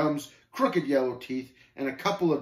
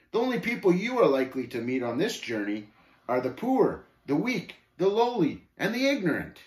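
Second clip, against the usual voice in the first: swooping, higher list of contempt; lightly voiced scornful Shame, disdainful; 6 semitones higher, 3 dB louder than usual. Shame describing the pilgrim's companions, disdainful. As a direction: draw out each item with mild disdain.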